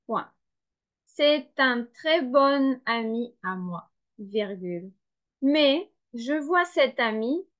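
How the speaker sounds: slow, measured dictation with pauses between phrases; dictation reading. Shown as a demonstration. Teacher dictating a text to learners, slow dictation reading. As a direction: read it out phrase by phrase for writing down.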